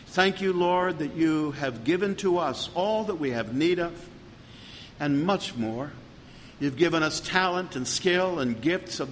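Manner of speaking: steady, earnest pastoral prayer; closing prayer. Acted. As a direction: pray it over the congregation, even and humble.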